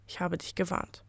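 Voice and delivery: a quiet final warning, full of menace; menacing and quiet. Acted. Spirit warns the greedy mine owner, soft menace. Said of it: "bedrohlich ernst und leise".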